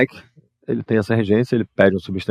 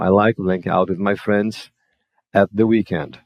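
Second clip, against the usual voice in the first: slow model sentence; slower than usual. Shown as a demonstration. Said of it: "At aqui porque é britânico".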